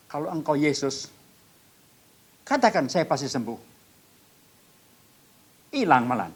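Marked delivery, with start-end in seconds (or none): 0.1-3.6 memohon tegas. Retold or imitated. Menantang sosok yang dilihat.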